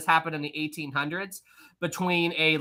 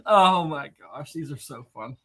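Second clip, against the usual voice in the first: laughing; 4 semitones lower than usual. Real, not acted. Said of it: "Oh, I'm crying".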